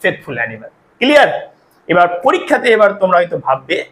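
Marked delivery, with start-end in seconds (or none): 0.0-0.7 very slow and deliberate; slow teacher's correction; slow corrected sentence. Shown as a demonstration. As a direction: spell out the right version slowly. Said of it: "তার জন্য এখানে আমরা দেয়া ব্যবহার করব".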